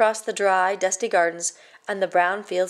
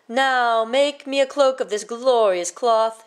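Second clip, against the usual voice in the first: ordered; 3 semitones higher, 4 dB louder than usual. Acted. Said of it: "he ordered".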